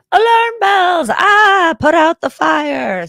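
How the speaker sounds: high, frantic alarm cry; panicked alarm voice. Pretend. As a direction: shriek it like a fire alarm going off. Firefighter part sounding alarm.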